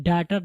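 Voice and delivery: "डॉटर" with an open a, "DA-tar"; mispronounced daughter. Shown as a demonstration. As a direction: say "डॉटर" wrongly as daa-tar. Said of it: "डॉटर नहीं". ("डॉटर" کا غلط تلفظ، "ڈاٹر")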